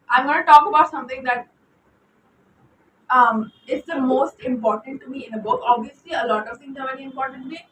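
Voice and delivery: Indian accent. Real, not acted. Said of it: "I'm really going on with my Indian accent today".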